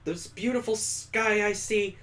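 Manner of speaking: gently voiced heroine making a promise; Mallory's promise.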